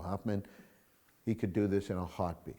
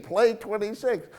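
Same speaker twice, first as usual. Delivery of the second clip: higher and louder, slow Play twenty-six; loud firm command; 12 semitones higher, 6 dB louder than usual. Retold or imitated. Rick orders the number over the gamblers, loud and firm. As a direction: call it over the crowd. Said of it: "Rick is saying".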